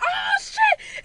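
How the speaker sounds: high squealed curse of shock; reenacted jump-scare outburst; startled shriek. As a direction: blurt it in a high panicked squeal. Reenacts being startled by witch.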